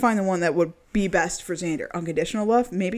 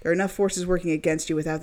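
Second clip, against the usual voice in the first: ad read. Acted. Reads love spell product page.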